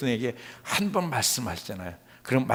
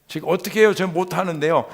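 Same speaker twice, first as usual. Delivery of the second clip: high, raised voice objecting; agitated retold objection; loud pleading protest; 5 semitones higher, 7 dB louder, faster than usual. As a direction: plead helplessly at high volume.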